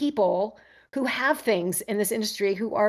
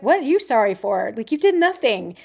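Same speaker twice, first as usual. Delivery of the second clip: reassuring; 2 semitones higher than usual. Retold or imitated. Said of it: "I'm like".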